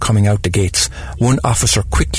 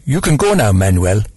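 barked dismissal; 3 dB louder than usual. Acted. Employer dismissing her gardener, a lightly acted bark. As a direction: snap the order out, lightly acted. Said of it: "she barked at the gardener".

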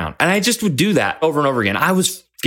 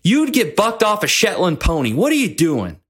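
retold scolding, pitched up; frustrated coach; 5 semitones higher than usual. Coach to kid bucked off yet again, exasperated scolding. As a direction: give a mock kick-in-the-butt telling-off. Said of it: "a kick in the butt".

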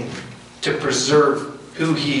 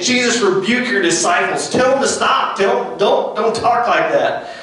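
indignant Pharisees; 4 semitones higher than usual. Acted. Voicing Pharisees scolding Jesus.

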